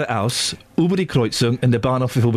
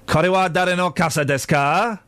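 moderately higher, more measured Japanese question; repeated Japanese phrase; 4 semitones higher than usual. Shown as a demonstration. Host repeats it for puzzled co-host, measured questioning. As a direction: repeat the phrase carefully, rising at the end. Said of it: "Whose umbrella is this?".

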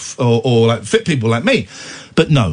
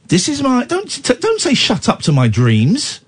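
mock wounded protest; 9 semitones higher than usual. Protesting sister's "shut up.

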